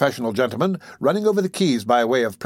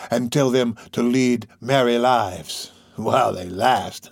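put-on sly old man voice. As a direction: drawl it like a crafty old fence. Fagin's voice.

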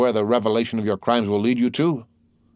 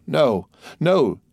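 vociferated; 6 semitones higher than usual. A narrator's reading. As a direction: cry out the refusal. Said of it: "she vociferated".

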